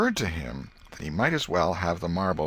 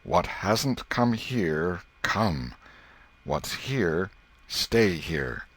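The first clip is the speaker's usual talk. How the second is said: slow, weighty spell-chant, first phrase drawn out; solemn incantation; much slower than usual. Acted. Boy casting a spell over buried marble, solemn. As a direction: intone it like a magic charm. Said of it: "uttered this incantation impressively".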